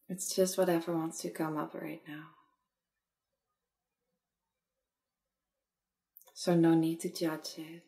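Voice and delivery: unhurried meditation guide, long pauses; measured guiding voice, easing off at phrase ends; guided meditation. Acted. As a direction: gently lead a listener inward, phrase by phrase.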